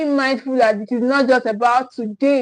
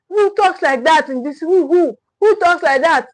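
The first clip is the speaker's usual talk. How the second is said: raised-pitch indignant parent; mock scolding; 4 semitones higher, 3 dB louder than usual. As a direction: play a parent suddenly telling a child off. Acted parent scolding a child.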